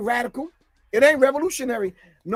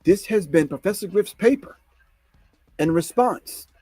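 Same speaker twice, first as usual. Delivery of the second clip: lower, measured list reading; mock scholarly calm to satisfy critics; deep intellectual calm voice; 4 semitones lower than usual. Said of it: "let me use my deep intellectual calm voice".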